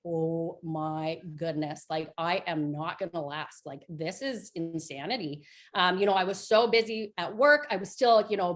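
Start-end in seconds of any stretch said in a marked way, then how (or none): 0.1-5.5 slow, soft and drained, like she's sinking under the workload; overwhelmed. Retold or imitated. Back at work and overwhelmed, a slow, quiet, worn-out moan. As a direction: let the words fall low and tired, barely holding on. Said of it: "I went back to work and I was like".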